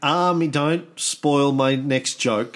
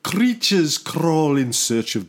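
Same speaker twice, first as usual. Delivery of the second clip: spooky song narrator; 6 semitones lower than usual. Retold or imitated. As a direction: growl it out like a horror trailer. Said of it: "that was Thriller".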